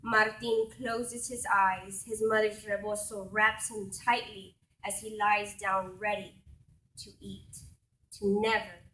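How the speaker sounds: measured, unhurried poetry reading; poem reading. Acted. Poet reading her own poem to an audience, measured. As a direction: let each image land as you read.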